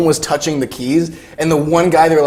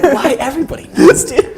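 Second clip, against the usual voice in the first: role; 10 semitones higher than usual. Retold or imitated. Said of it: "I'm like".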